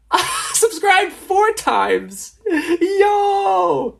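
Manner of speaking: high, drawn-out exclaiming into a yell; retold fan excitement. New fan reliving subscribing, retold excited yell. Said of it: "I was like".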